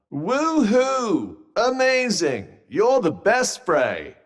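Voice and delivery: high-pitched, put-on gushing praise; mock cheering. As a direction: cheer them on with exaggerated, insincere delight. Put-on cheering, then asks to stop.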